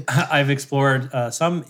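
slow, laughing through the words; laughing retake. Shown as a demonstration. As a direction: laugh it out slowly on the retry. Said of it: "try that again".

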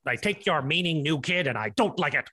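low, stern sergeant voice; drill sergeant. Acted. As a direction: order the recruit like a sergeant. Army man orders new recruit.

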